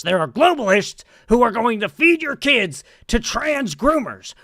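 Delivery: lightly voiced ranting conspiracy man; Alex Jones impression. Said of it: "Your Alex Jones voice is better".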